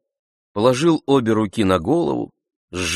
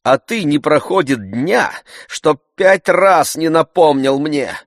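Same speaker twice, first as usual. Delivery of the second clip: much higher, louder complaint; aggrieved scolding; 9 semitones higher, 8 dB louder than usual. A narrator's reading. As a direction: wail about your nerves. Master scolding servant.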